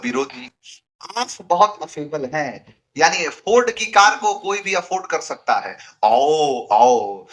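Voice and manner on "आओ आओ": startling tone. Retold or imitated. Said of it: "ऐसा बोला tone कि एस्टोनिश कर दिया".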